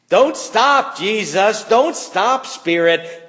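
high, loud pleading cries; eager plea. Real, not acted. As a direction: urge them on with rising excitement. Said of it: "pleading prayer".

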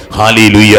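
very loud hallelujah call. Real, not acted. Preacher rallying the congregation after a heated list, loud call. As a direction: belt it out for the congregation to answer.

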